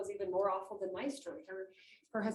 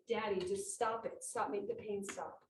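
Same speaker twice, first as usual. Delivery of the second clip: quiet pleading; 2 semitones lower, 3 dB quieter than usual. Retold or imitated. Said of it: "When he said".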